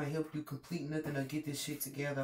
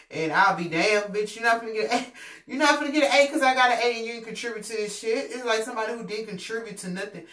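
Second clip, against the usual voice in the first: loud, higher, furious refusal; angry outburst; 6 semitones higher, 8 dB louder than usual. Acted. Classmate yelling at a freeloader, loud and angry. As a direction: yell it like a cheated classmate. Group member refusing credit.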